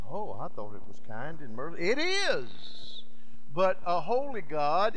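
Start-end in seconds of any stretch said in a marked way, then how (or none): 0.1-1.8 quick, lower mock protest; hurried little objection, dropped in pitch; protesting sinner. Condemned sinner answers the judge.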